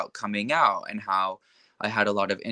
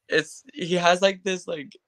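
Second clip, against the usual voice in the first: high, put-on imitation of a friend; Nathan; 9 semitones higher than usual. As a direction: push the voice up high to mimic his talk. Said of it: "trying to talk like this".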